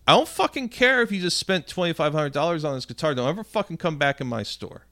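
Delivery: angry banning. Retold or imitated. Steve banning the customer.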